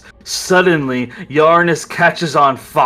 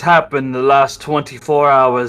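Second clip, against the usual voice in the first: invoke the god gravely; solemn prayer. Acted. Grayson prays to wipe memory.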